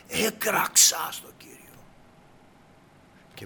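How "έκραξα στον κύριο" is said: stretched, high, strained cry held back; crying out inwardly. Shown as a demonstration. Preacher shows how he cried to the Lord, strained restrained cry. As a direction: cry out without vocal power, drawn out. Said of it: "όχι με δύναμη φωνής".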